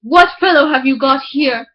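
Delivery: gruff miller. Acted. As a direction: demand it like a wary miller. Miller challenges wife.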